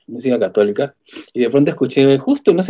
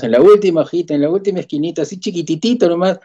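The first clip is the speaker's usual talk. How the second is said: coaxing plea; 5 semitones higher than usual. Retold or imitated. Begs sister for a tiny ad.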